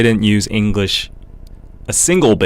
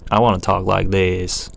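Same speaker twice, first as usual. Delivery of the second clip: a light put-on American Southern accent. Wishing aloud for a new accent, mock Southern accent. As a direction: slip into a playful Southern accent. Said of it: "I want a Southern accent".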